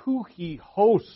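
"Tuchihos" said the Greek way, high and loud, stress on the last syllable; Greek pronunciation. Shown as a demonstration. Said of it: "his name in Greek is".

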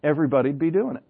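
lightly imitated Irish accent, picking up pace; uncle's Irish accent. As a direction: quote the uncle with a slight Irish lilt. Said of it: "with his accent".

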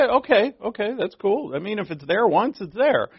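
mock the easy-going reader who shrugs it off; casual brush-off. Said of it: "And so we say".

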